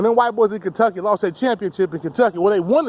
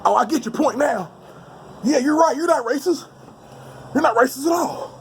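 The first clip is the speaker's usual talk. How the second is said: higher, mock-eager agreement; sarcastic agreement; 5 semitones higher than usual. Imagined critic caving in, sarcastic and higher. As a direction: fake a sudden change of heart. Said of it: "You'll be like".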